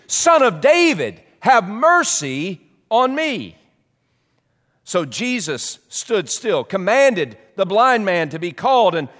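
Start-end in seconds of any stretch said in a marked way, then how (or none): 0.1-3.6 urgent cry. Retold or imitated. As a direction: call out desperately for mercy. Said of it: "he cried out all the more urgently".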